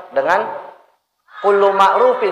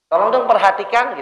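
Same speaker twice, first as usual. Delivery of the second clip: polite request; 4 semitones higher than usual. Retold or imitated. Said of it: "Kata-katanya, eh, enak".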